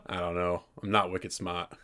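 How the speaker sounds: put-on low-key Boston accent; Casey Affleck. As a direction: do a mumbly mock Bostonian. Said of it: "You being Casey Affleck right now".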